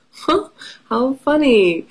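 high playful huh; surprised. Real, not acted. Surprise at pumpkin boy.

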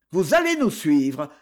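rough voice. Acted. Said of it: "d'une voix rude".

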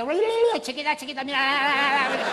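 very high loud hooting call; high loud mock yell; mock shout. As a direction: yell to catch her eye. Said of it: "que le grite".

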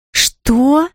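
sharp outraged "what?" pitched high; indignant cry. A narrator's reading. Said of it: "возмущённо вскричала она".

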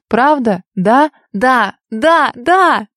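sobbing, rising shouts of yes; angry crying. A narrator's reading. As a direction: shout yes through sobs. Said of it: "кричала я, захлёбываясь рыданиями".

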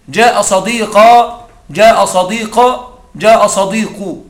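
جاء صديقة said slowly with a long "-a", then جاء صديق; drawn-out teaching read of each ending; slow, careful demo of جاء صديقة; slow grammar demo. Shown as a demonstration. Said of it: "أقول".

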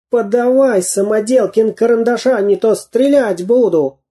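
high-pitched villain's threat; threatening demand. A narrator's reading. Spy threatens Самоделкин with a pistol, demanding.

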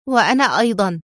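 mildly firm, decisive; firm exclamation. A narrator's reading. Mona insisting she will come along, firmly. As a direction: put it firmly, brooking no argument. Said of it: "صاحت منى في حزم".

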